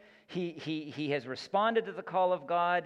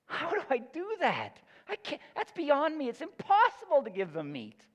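a leader at the end of his rope, pleading; whiny Moses; 10 semitones higher than usual. Retold or imitated. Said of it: "Moses going like".

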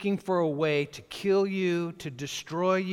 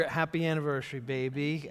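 romantic; 2 semitones lower, 4 dB quieter than usual. Real, not acted. Wishing wife happy anniversary.

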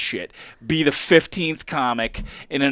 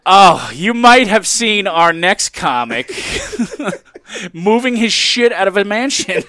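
emcee introduction; 4 semitones higher than usual. Pretend. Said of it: "How would you introduce him?".

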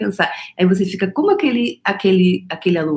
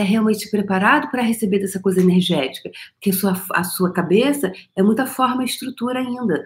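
usual speaking voice

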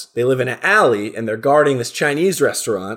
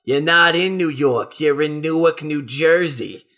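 slow, put-on cartoon cat voice; slower than usual. Cat corrects the lost turkey about where he is, slow put-on voice. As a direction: draw it out as a know-it-all cat character.

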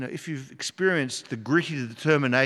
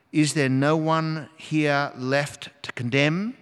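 tender; slower than usual. Acted. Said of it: "Jesus says to her tenderly".

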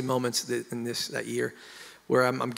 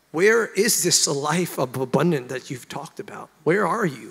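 desperate demand; 4 dB louder than usual. Retold or imitated. Retold demand to absent God.

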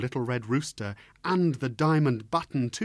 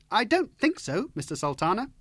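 high, bright-eyed fearless bird voice; cheeky rooster; 9 semitones higher, 3 dB louder than usual. Acted. Little rooster cheekily refusing the Sultan, high and bold. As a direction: tease him without a trace of fear.

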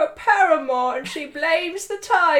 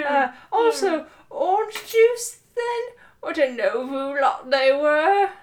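put-on British accent. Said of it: "you're going to do a British accent".

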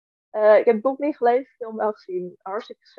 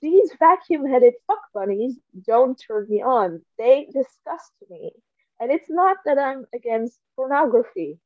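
dry deadpan reading voice; reading aloud. Acted. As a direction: read the passage straight, deadpan. Reads book passage aloud.

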